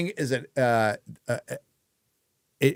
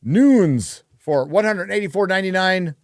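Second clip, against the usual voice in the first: announcer call; 7 semitones higher, 3 dB louder than usual. Acted. Announcer read.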